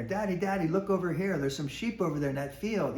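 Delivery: put-on high, eager child calling her dad; excited little girl. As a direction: play the daughter thrilled by the view, pulling at Daddy. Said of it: "she's getting all excited".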